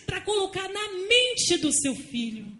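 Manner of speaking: loud, slow, drawn-out preaching with rising pitch; fiery preaching. Acted. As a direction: thunder the warning to the congregation. Preaching at full force.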